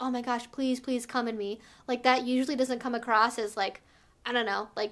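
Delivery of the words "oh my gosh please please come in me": put-on begging, pleading tone, quieter. Showing how to ask for something in a submissive way: demo of begging. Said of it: "begging and asking".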